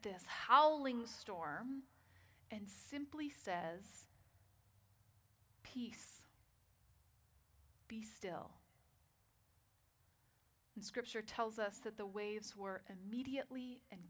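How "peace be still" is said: breathy whisper, slow and very soft, with long pauses; hushed command. Acted. Jesus stilling the storm with a whisper to the waves.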